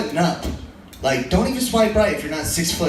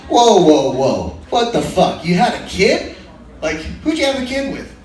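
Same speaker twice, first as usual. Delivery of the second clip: loud halting whoas, then climbing disbelief; hammed-up alarmed objection; mock shock; 4 dB louder than usual. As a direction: act the appalled match, pitch rising into the question. Imagined guy reacting with shock.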